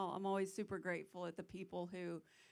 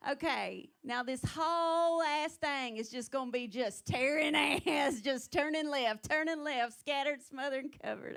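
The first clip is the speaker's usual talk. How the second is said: much higher, louder, dragged-out redneck twang; hick Southern accent; 5 semitones higher, 9 dB louder than usual. Retold or imitated. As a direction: drag every word like a NASCAR fan. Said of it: "I'm like".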